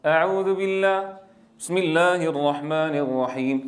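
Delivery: "بسم الله" with the fatha reduced toward sukun; lazy, closed-mouth recitation; mouth half shut. Shown as a demonstration. مثال خاطئ: البسملة بفم شبه مغلق. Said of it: "ولا تقول".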